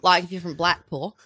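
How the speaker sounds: loose mock Blackpool accent; half-sure Blackpool impression; British accent. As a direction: try a regional British accent. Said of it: "Call in with a British accent".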